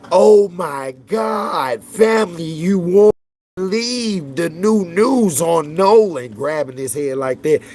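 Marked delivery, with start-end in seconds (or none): 0.1-6.3 mock the dramatic opener, shouted and slow; mocking hyped YouTuber. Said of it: "you know what the nigga started off? Said".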